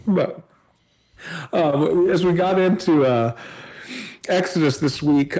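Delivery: talking while chewing chips; mouth full. Real, not acted. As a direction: speak around a bite of chips. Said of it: "Sorry, I'm eating chips".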